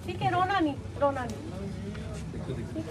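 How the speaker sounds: hushed, trailing-off reassurance; gently calm someone who is crying; soothing. Real, not acted. Official to a weeping mother, softly soothing.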